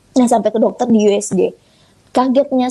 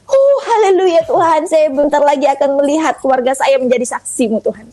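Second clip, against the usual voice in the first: joyful praise; 4 semitones higher than usual. Retold or imitated. Thanking God for the family's testimony, joyful. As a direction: retell a mildly elated hallelujah.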